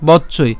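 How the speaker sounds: বচ্চই as "boch-choi"; doubled-consonant pronunciation. Shown as a demonstration. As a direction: close on ch before choi in বচ্চই. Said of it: "একটা চ প্রথমে উচ্চারণ করছি". (বচ্চই, প্রথমে একটা চ আটকে)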